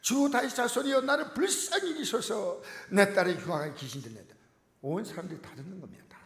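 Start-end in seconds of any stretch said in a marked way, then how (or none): 0.0-4.3 mother crying out, much higher and louder; desperate cry. Acted. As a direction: plead loudly for her daughter in the street. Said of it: "길 한복판에서 크게 소리 질렀다". (딸을 위해 길에서 울부짖는 어머니, 큰 외침)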